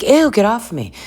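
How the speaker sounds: high, squeamish protest; put-on grossed-out squeal; mock disgust. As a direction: imitate a girl pushing someone away. Imitates Demi refusing at first.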